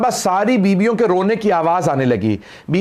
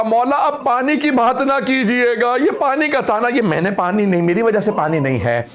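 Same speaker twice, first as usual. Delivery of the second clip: a touch of weeping, rising pitch then settling; tearful plea; 5 semitones higher than usual. A narrator's reading. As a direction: plead through mild tears, ashamed. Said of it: "अब जनाब हुर रोने लगे".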